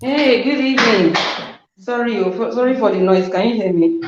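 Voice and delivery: echoing caller on speaker; on speakerphone. Real, not acted. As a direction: voice through a phone speaker. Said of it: "It's like you're on speaker or Bluetooth".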